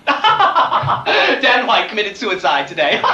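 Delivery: mock news read, giggling; a joke headline through laughter; laughing through it. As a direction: read it while cracking up.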